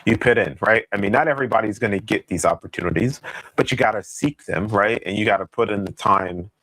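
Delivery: breaking-up, crackly mic audio; crackling mic. Real, not acted. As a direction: voice cutting in and out. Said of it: "The, the mic is cracking".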